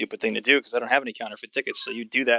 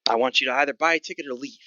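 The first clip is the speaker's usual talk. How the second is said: lightly voiced gruff goblin, pitched up; gruff old goblin; 3 semitones higher than usual. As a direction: put on a hint of a crusty old goblin ticket seller. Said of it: "Sort of this gruff old goblin".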